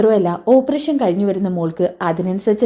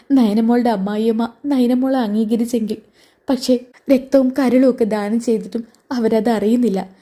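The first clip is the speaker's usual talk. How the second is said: tearful; 3 semitones higher than usual. Acted. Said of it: "കനക കരഞ്ഞുകൊണ്ട് പറയുന്നുണ്ട്".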